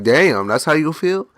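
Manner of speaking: slow, incredulous, rising at the end; affronted disbelief. Retold or imitated. Customer stung by the wife's attitude, affronted.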